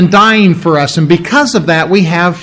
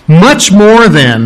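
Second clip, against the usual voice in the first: MUCH MORE drawn out slowly and louder; emphatic; 4 dB louder, slower than usual. Acted. Emphatic reading of verse.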